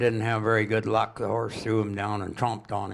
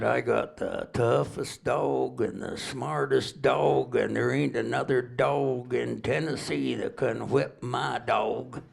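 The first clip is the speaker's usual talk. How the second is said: Tennessee drawl; 2 semitones higher, slower than usual. Retold or imitated. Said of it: "they talk kinda slow and drawl down there".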